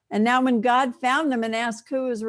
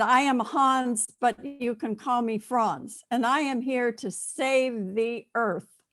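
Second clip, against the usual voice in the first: put-on slow, playful European bodybuilder accent; Hans and Franz accent; 2 semitones higher, slower than usual. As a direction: imitate a son's mock European bodybuilder accent, slowly. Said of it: "he said in this accent".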